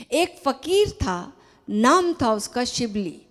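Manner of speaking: deliberate, emphatic storytelling from a text; story reading. Acted. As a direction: read the tale out phrase by phrase. Reads the story in the letter. (कहानी का सधा हुआ, ज़ोरदार पाठ)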